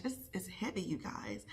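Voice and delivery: holding back tears. Real, not acted. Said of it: "I'm trying not to get emotional".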